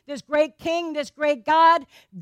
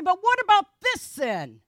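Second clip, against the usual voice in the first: pleading objection; 3 semitones higher than usual. Acted. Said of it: "but I would say".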